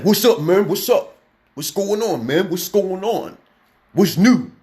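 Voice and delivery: high, loud, exaggerated African-American street voice; mocking African-American slang accent. Speaker imitating brothers in America, mocking high African-American accent. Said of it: "my brothers in America, African-American brothers, they be like".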